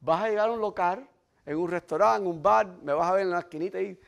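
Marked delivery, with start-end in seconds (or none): none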